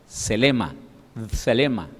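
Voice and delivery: "selema" said slowly, stress on the first e; Greek word demo. Shown as a demonstration. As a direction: spell out "selema" carefully, SE-lema. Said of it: "se lee en el griego como". (pronunciación de "selema" con acento en la primera e)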